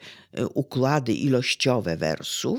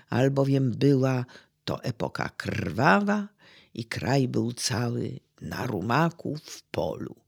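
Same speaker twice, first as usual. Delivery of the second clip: measured verse reading, fading to a hush; poetry recitation. Acted. Recytuje oktawę Beniowskiego. (recytacja poezji, coraz ciszej i niżej)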